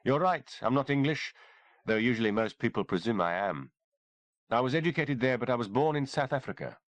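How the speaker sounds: composed, a touch amused; lightly voiced doctor. Kimberly tells the sergeant where she was born, lightly voiced woman. Kimberly explains her origins.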